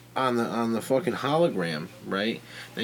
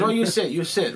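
Chinese counter lady; 7 semitones higher, 3 dB louder than usual. Retold or imitated. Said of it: "she goes".

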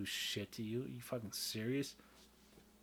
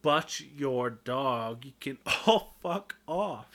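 belting the lyric; 2 semitones higher, 4 dB louder, slower than usual. Retold or imitated. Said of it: "She's like".

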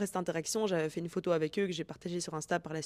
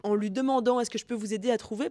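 excited; 5 semitones higher, 4 dB louder than usual. Retold or imitated. Excited realisation retold to friend.

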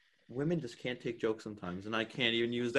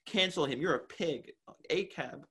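higher-pitched imitation of online outrage; mock outraged mob; 6 semitones higher than usual. Imitating everyone online attacking the TikTok guy, mock outrage. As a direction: parody a crowd calling someone out.

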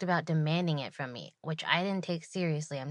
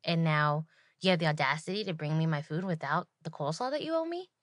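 complaining customer. Retold or imitated. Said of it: "she immediately, you know, complained that".

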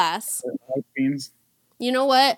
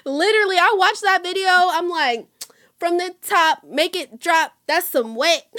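excited; 6 semitones higher than usual. Real, not acted. Excited retelling.

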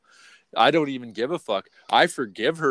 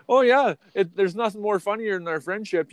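joking re-enactment; 7 semitones higher than usual. Retold or imitated.

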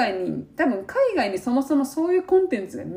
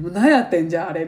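mock exasperation; 4 semitones lower, 4 dB louder, faster than usual. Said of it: "みたいな".

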